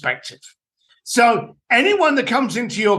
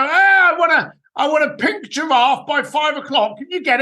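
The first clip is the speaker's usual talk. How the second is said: mock demanding guest; 6 semitones higher than usual. Winding up the concierge, a silly demanding guest voice. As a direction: ham up an absurd demand. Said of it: "We'd go".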